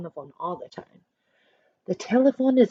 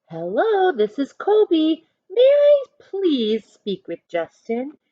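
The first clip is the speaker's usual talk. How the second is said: polite caller voice; 8 semitones higher, 5 dB louder, slower than usual. Acted. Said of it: "He is using good manners".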